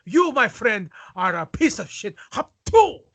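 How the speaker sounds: put-on thick Iron Sheik accent, ranting; wrestler promo voice. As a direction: rant like an old-school wrestling heel.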